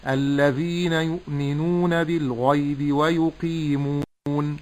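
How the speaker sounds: slow, drawn-out recitation with held long vowels; teacher's slow model recitation; measured Quran recitation. Shown as a demonstration. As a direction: recite syllable by syllable, unhurried.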